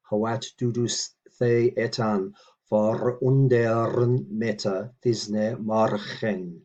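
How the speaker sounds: very slow, deliberate recitation; measured teaching read; careful Old English reading. Shown as a demonstration. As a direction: draw each word out for the learner. Reads Old English model sentence.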